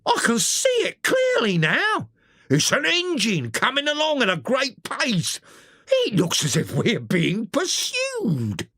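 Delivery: the driver calls out over the engine noise; calling out. A narrator's reading. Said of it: "the engine driver called out".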